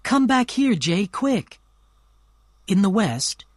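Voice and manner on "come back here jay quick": much higher, louder urgent call; cried out. A narrator's reading. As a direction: call him over, eager and quick. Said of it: "Daisy suddenly cried out".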